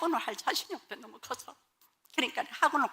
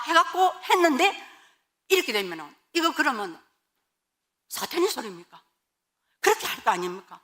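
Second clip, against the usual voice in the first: retold indignant prayer, slightly raised; arguing with God; 3 semitones higher than usual. Wife questioning God's call to America, indignantly arguing. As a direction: press God with pointed questions. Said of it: "하나님께 막 따졌어요".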